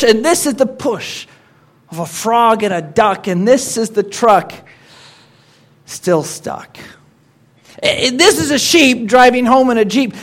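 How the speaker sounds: lively storybook reading; poem recital. Acted. Pastor reciting a duck poem to the congregation. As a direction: read it like a children's rhyme.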